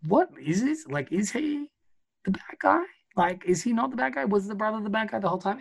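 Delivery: high, incredulous questioning; baffled disbelief. Retold or imitated. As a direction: act out a confused viewer, voice shooting up. Voices the baffled viewer's reaction.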